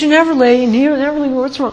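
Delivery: high, whiny tearful complaint; mock tearful. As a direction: whimper it as if about to bawl. Retells someone breaking into tears.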